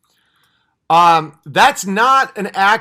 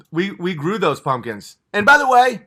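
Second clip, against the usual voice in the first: ordinary talk, nothing marked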